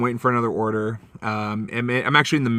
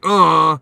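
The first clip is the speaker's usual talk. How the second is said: loud, raised mock "ugh"; imitated disgusted groan; 5 semitones higher, 7 dB louder than usual. Retold woman's annoyed reaction.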